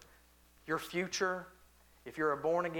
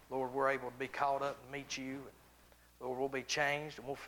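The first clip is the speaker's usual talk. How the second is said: prayer; 3 semitones lower than usual. Acted. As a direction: pray humbly over the congregation. Closing prayer for the church.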